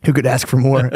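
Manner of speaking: line bursting into a long laugh; real laughing. Real, not acted. Podcaster joking about Mexican babies, laughing. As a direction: crack up as you finish. Cracks up at own joke.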